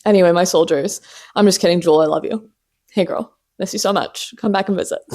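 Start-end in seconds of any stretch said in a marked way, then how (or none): 2.0-5.0 softer, affectionate asides; tender. Real, not acted. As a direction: coax her back gently. Tender address to Jewel.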